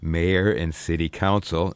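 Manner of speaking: mildly sardonic, drawn out on "beloved"; slow down for understated sarcasm; sarcastic. Real, not acted. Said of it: "I say that sarcastically, sardonically".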